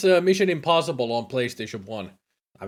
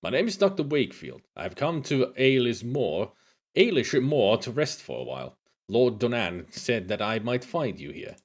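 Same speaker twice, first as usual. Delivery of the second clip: put-on Scottish accent. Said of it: "I'm gonna keep them Scottish".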